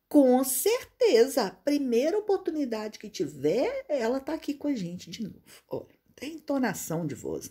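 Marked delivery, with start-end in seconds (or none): 0.1-5.4 louder, higher, emphatic com certeza; eager endorsement. Retold or imitated. The former boss eagerly assures the recruiter, loud and much higher. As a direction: gush it out, fully convinced. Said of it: "Ou vai falar assim".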